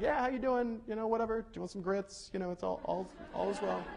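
hammed-up Southern accent; mock Southern accent. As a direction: lay on a folksy Southern accent, badly. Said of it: "that was bad".

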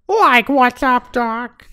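high, slow, loud Shaggy-style drawl; fake Bugs Bunny. Asked for Bugs Bunny, slips into a high slow Shaggy voice. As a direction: promise Bugs, deliver Shaggy. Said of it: "here's my Bugs Bunny".

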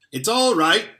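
loud joyful call; shouting. Acted. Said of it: "he was shouting".

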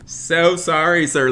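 loud, high, drawn-out sorry; exaggerated apology. Streamer to the angry driver, exaggerated loud apology. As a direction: overdo the apology, slow and loud.

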